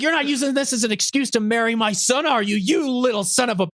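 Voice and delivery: high-pitched mock screaming mother; hammed-up high tirade, cut off mid-insult; Chi-Chi. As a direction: rant accusingly in a cartoon mom voice. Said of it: "And Chi-Chi's like".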